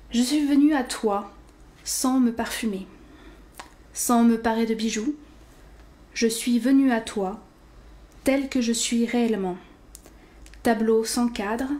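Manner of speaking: measured poetry reading, a pause after each line; understated recital with falling line ends; poem recitation. Acted. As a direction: read the poem simply, line by line.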